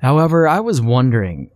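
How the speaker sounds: put-on a know-it-all boy talking down to his little sister; smug morbid lecture.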